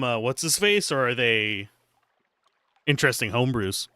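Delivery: normal talking voice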